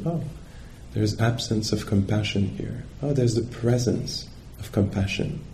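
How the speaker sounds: soft, mild self-observation; note it softly, without judging; non-judgmental noticing. Acted. Meditator noticing whether compassion is there, soft and non-judgmental. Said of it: "in a non-judgmental way".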